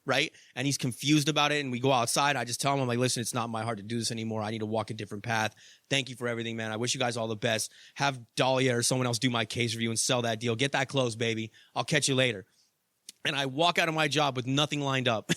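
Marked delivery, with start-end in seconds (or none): 3.0-12.4 calm, measured resignation speech; calm farewell. Retold or imitated. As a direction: gently tell the boss goodbye. Quitting, telling the boss goodbye.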